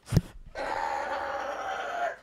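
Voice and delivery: long straining, scraping noise; imitated stuck-chair noise. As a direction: act out a chair refusing to budge. Imitates the chair that won't move.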